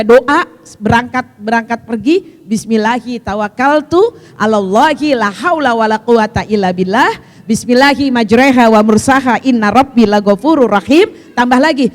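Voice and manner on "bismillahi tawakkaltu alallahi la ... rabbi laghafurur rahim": prayer recitation. Acted. Teacher reciting the travel prayers to her congregation, measured recitation. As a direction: recite the prayer with strong projection.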